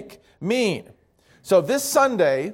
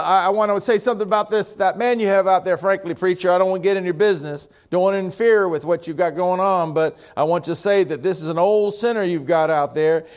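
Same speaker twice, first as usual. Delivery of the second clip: put-on southern accent; faster than usual. Tall man objecting to the preacher at a river baptism, southern accent. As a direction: speak up quickly with a southern accent. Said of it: "pick up a southern accent".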